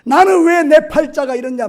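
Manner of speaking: 높고 크게 터뜨리는 원망; 하나님께 악쓰며 따지듯. Retold or imitated. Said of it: "발악을 하는 거예요". (발악하듯 외치는 흉내)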